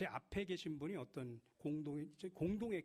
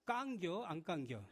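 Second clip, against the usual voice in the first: slow, drawn-out Chungcheong dialect question; slower than usual. Shown as a demonstration. Preacher showing the congregation the Chungcheong way, slow Chungcheong drawl. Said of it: "충청도 말로는".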